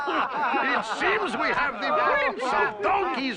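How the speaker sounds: mock the boy while laughing; laughing mockery. Auctioneer to the gentlemen, ridiculing the boy while laughing.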